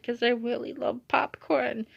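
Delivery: high, slow mock-tearful plea; half-hearted, slow fake sob story; badly faked crying. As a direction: draw it out as a pretend cry. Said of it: "I can't fake cry".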